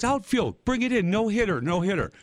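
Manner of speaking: high-pitched mimicked catcher's call; mock field call. Blonde catcher to her outfield about the batter, mock calling out.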